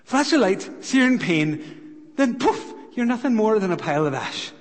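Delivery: punchy fragments, then a quick finish; gleeful dwarf taunt. Acted. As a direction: deal out each grisly step, then rattle off the end. Dwarf taunting the fainting hobbit.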